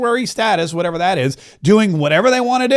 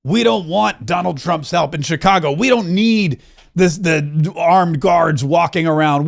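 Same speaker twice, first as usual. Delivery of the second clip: mock city leaders; slower than usual. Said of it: "They're gonna say".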